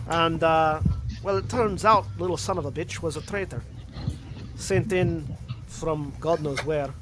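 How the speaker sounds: Scottish veteran recounting a betrayal; Scottish accent. Acted. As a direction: tell the tale in a Scottish accent. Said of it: "going from Scottish to Russian".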